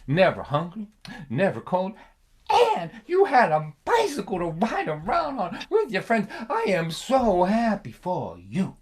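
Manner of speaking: drip sarcasm like a dry father; sarcastic dad. Retold or imitated. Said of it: "He goes".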